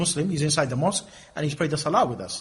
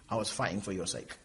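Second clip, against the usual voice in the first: softer, low and humble; meek soft plea; 8 semitones lower, 13 dB quieter than usual. Acted. Mujahid answering God, soft and low. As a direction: answer timidly, head bowed.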